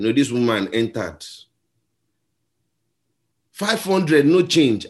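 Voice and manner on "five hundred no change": higher mock conductor's call of the fare; shouting fares out the bus door. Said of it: "This guy was shouting this thing".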